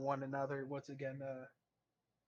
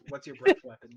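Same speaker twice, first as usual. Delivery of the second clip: louder and higher, spelling it out; loud blunt question; 7 semitones higher, 12 dB louder than usual. Real, not acted. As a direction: bark the question across the table. Rephrasing loudly for him.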